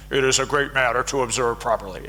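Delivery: put-on quick, playful ancient Greek accent. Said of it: "Aristotle probably talked like this".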